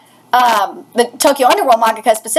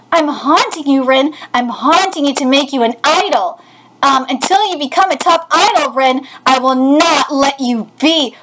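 ghost voice. Acted. Ghost character haunts Rin.

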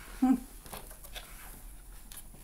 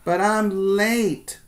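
put-on higher, slower kid's protest; a hint of a hurried boy; 7 semitones higher, 4 dB louder, slower than usual. Ben excusing himself to his teacher, lightly pleading. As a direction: plead like a little boy in a rush. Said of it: "Ben says".

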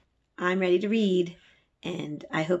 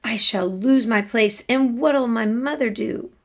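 frightened; 5 semitones higher, 4 dB louder than usual. Acted. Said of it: "she cried".

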